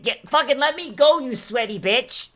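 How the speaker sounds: screaming to be let go; furious, shrill yell to break free; angry shout. Acted. Character thrashing free from a hug.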